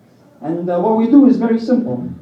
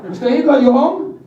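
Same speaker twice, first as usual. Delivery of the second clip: higher-pitched mock caller at a door; door-knocking Russians calling out; 4 semitones higher than usual. Russians come knocking on Hitler's door, mock calling out. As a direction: call in lightly, pitched up, as a visitor.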